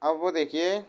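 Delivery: quiet, word-by-word dictation with long pauses; slow dictation. Acted. Teacher dictating notes to students, slow and quiet. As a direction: dictate each word slowly so the class can write.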